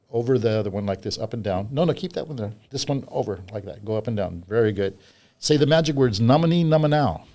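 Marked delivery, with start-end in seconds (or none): 5.4-7.2 bright showman calling out the spell; kids party magician. Acted. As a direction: chant the magic words like a stage magician. Magician leads the magic words.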